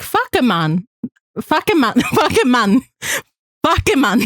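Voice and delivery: "Fuck a man" with Spanish vowels, "mahn"; Spanish reading. Shown as a demonstration. Cohost showing how he'd read the name in Spanish. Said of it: "trying to read that in Espanol".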